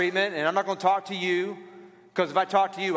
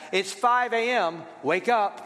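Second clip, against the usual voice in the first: note read out. Retold or imitated. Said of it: "It says".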